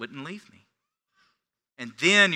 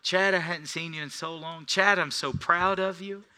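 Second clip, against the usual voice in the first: a hint of an excited, higher friend; 7 semitones higher, 3 dB louder than usual. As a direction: lightly voice his proud excitement. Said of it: "he's all excited".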